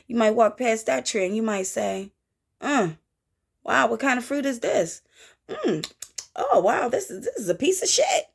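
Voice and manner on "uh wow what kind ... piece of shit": high, disbelieving wow; hammed-up taste of bad fruit; playful shocked reaction; mock disgusted surprise. Voicing someone tasting bad fruit.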